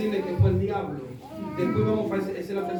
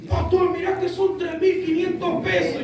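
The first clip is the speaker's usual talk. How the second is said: higher, insistent objection; mock nagging; 7 semitones higher, 5 dB louder than usual. Church brother keeps objecting to the price, mock nagging. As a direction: imitate someone who keeps on protesting. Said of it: "Y el hermanito seguía".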